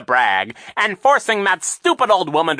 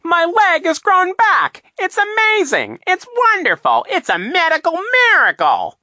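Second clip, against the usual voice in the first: false joy; 10 dB louder than usual. A narrator's reading. Villain to crowd, hammed-up fake joy. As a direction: ham up a miracle you don't believe. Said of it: "in a voice of false joy".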